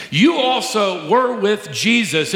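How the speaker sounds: lightly sneering, accusing; sarcastic accusation. Retold or imitated. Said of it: "her words are tinged with sarcasm".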